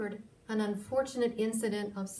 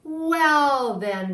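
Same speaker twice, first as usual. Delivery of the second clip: louder, higher, brisk groundhog; groundhog hurrying off; 6 semitones higher, 10 dB louder than usual. Acted. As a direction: say it like a busy star rushing away. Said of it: "Groundhog said".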